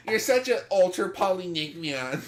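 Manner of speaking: lightly dorky nerd voice; nerdy voice. Pretend. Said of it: "the dorky, nerdy voice".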